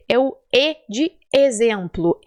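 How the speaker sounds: E of exemplo said closed. Shown as a demonstration. Teacher modelling the closed E for students. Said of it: "que eu chamo de fechado".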